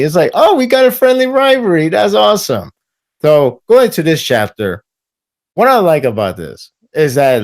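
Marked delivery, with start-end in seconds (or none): 0.3-2.7 very high, gushing put-on voice; hammed-up excited approval; mock delighted cheer. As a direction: gush in a squeaky high voice. Imagined delight at friendly rivalry.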